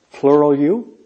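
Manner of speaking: ordinary talk, nothing marked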